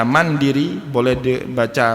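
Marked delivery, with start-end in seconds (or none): 0.0-0.8 mandiri read man-di-ri with i vowels; mandiri, one vowel reading of the same letters; vowel reading demo. Shown as a demonstration. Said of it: "itu boleh dibaca dengan beragam".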